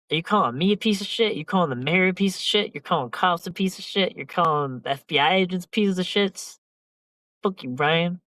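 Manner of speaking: high mock indignation at Brian; mock outrage. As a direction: ham up an indignant tirade.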